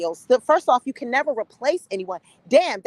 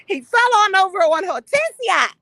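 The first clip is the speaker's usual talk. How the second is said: high, loud mock wailing; 7 semitones higher, 5 dB louder than usual. Vlogger mocking a grieving woman with a loud wail. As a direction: wail the name like a hammed-up mourner.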